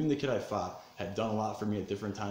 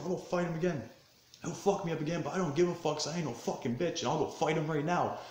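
high-pitched, heated bravado; retold angry defiance; 7 semitones higher than usual. Vowing to fight again despite losing, fired up. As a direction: act out refusing to back down, pitched way up. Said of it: "I'm so angry".

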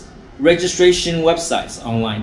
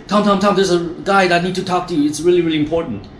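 fast, a bit higher hurried babble; flustered rush; 4 semitones higher, faster than usual. Retold or imitated. Staff member rushing to the boss, fast and higher. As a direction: rush in breathless with news. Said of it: "run to my office and say".

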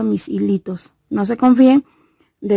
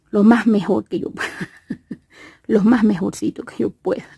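speaking with a lisp after tooth extraction; lisp from missing teeth. Real, not acted. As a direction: talk as if a potato is in the mouth. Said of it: "como tengo una papa en la boca".

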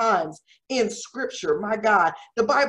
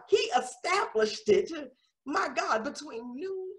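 hushed preaching; 3 semitones higher, 10 dB quieter than usual. Real, not acted. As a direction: voice sinking to near silence. Hushed emphasis after loud preaching.

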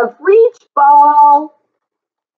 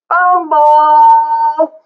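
higher, hammed-up stumbling word; mock fumble; 4 semitones higher than usual. Acting out clumsy sheep for a child, hammed-up fumble.

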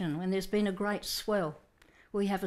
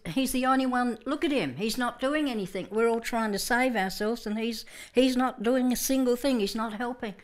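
higher, louder exasperated grumbling; indignant complaint; 4 semitones higher, 4 dB louder than usual. Retold or imitated. Disciples complaining about sleeping Jesus, exasperated. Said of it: "the attitude was possibly this".

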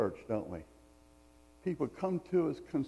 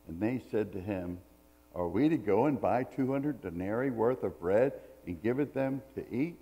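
measured reading of the Gospel passage; scripture reading. Acted. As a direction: read the passage steadily to the congregation. Pastor reads the Bible passage aloud.

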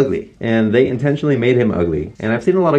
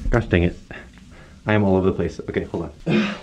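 out of breath; 3 semitones lower, 3 dB quieter, faster than usual. Real, not acted. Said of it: "Why am I so out of breath?".

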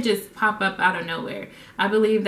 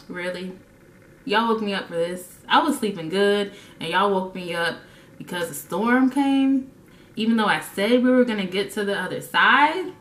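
unimpressed Jesus. Retold or imitated. Jesus to disciples after the storm, dryly unimpressed. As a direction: sigh it out, you woke me for this.

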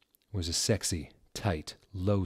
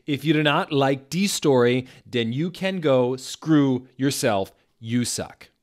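loud, high, slow scolding; furious author rant; 6 semitones higher, 8 dB louder, slower than usual. Acted. Furious author yelling at flamers, loud and high. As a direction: blast the flamers with fury.

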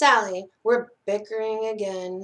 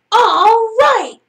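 high, loud, enthusiastic cheer; excited cry; 12 semitones higher, 11 dB louder than usual. A narrator's reading. Conrad and Sally getting into the spirit, excited cry. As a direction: shout it out, way up high. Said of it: "cried Conrad and Sally".

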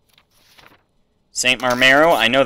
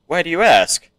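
higher-pitched character reply; pitched-up questioning character voice; put-on accented entrant voice; 7 semitones higher, 4 dB louder than usual. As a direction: lift the voice for a game entrant. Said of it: "separate male and female accents, voices".

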